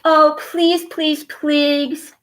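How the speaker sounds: put-on high, pleading little girl voice; begging Cassie. A narrator's reading. Girl begging her parents for a puppy, high and pleading. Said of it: "begged Cassie".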